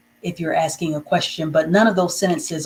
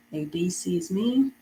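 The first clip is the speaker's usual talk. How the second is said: slow dictation; slower than usual. Shown as a demonstration. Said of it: "let me write this sentence for you".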